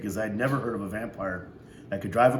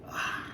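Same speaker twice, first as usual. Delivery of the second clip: yawn; 8 dB quieter than usual. Acted. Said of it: "I yawned real big".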